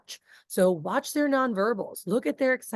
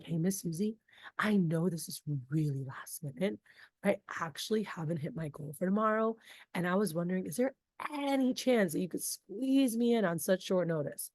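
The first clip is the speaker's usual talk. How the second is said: warm, personal urgency; sincere urgent ask; 2 semitones lower, 6 dB quieter than usual. Shown as a demonstration. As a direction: gently ask for a favour. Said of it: "Same sentence, but delivered differently".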